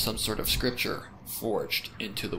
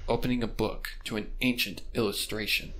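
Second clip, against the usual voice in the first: higher, louder eerie lore voice; pony tells the detective the legend, eerie and raised; ominous storyteller pony; 6 semitones higher, 4 dB louder than usual. Acted. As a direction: spin the legend like a dark secret.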